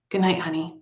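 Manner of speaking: soft, hushed goodnight; very softly. Acted. Mother saying goodnight to her son, very soft. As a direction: say goodnight tenderly and quietly. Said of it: "she said very softly".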